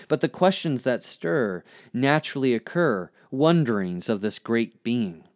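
measured spoken-word poetry reading; poem recitation. Acted. Reads own poem aloud.

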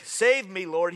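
high, loud cry for help; shouted plea. A narrator's reading. Peter sinking, shouting to Jesus for rescue, loud and high. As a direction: call out as if sinking. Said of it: "he shouted".

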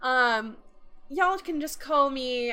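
put-on light Irish accent, chatty. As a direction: explain it quickly in an Irish lilt. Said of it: "in Irish accent".

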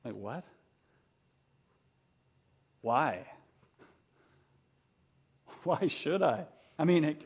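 mock annoyed, disbelieving push-back; incredulous protest. Private Ryan scoffs at the captain, mock incredulous. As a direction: act out a soldier baffled by a dying request. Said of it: "And he says".

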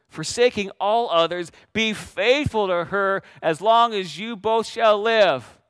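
lightly imitated Texas drawl, drawn-out vows; imitated Texas accent. Father-in-law officiating wedding vows, imitated Texas accent. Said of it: "In his thick Texas accent".

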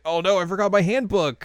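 acted dismay. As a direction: exclaim it like a sudden realization. Acted dismay at forgotten handbook.

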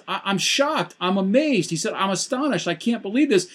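high, stunned exclamations; shocked Paul. Retold or imitated. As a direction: act out Paul's shock. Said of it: "He says".

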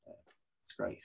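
hoarse sick voice; croaky from covid. Real, not acted. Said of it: "It gives me a very sexy covid voice".

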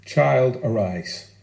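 put-on a tender call to wake a sleeping child, low and hushed; Jesus' gentle command. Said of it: "Jairus' daughter is raised with two words".

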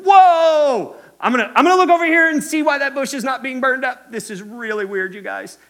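loud, high, fast amazed "whoa" then chatty; casual modern Moses. Retold or imitated. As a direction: blurt it out like a surprised guy today. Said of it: "He probably said".

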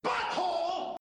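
high squeaky shouted Butthole; silly catchphrase. Pretend. Podcast host yells the running gag in a squeaky voice. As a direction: blurt it in a squeaky cartoon voice.

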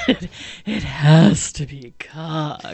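slow, giggling through the words; laughing. Real, not acted. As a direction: say it while cracking up.

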